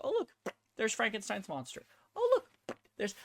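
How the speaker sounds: light mock glee at spotting a figure; mock delighted shopper. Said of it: "I could go".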